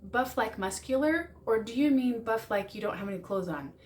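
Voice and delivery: rising, curious question; clarifying question. Shown as a demonstration. Asking a partner what buff means, curious. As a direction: ask it lightly to check meaning. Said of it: "And ask them".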